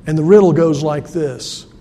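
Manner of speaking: ordinary delivery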